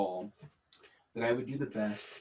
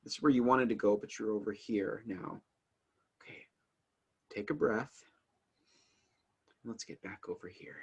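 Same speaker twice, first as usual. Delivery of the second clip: gentle self-talk. Retold or imitated. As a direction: coax yourself back on track kindly. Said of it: "I gently guide myself back".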